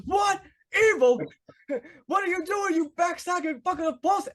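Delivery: high-pitched mock outrage, yelling; a shocked boss squealing at betrayal; outraged Richfield. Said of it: "And he goes".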